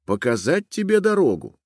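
a small helpful mouse offering the way; a hint of a squeaky mouse. A narrator's reading. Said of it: "Мышь спросила её".

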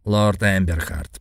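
put-on slow formal old man's voice. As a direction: address him slowly like an old lord. Old Greek addresses hero. (медленный старческий голос)

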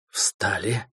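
soft hissed command; hissed order. A narrator's reading. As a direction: hiss it under your breath. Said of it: "тихо прошипел Трой".

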